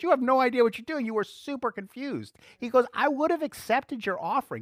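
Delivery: a stern God setting Cain straight; God scolding Cain. Retold or imitated.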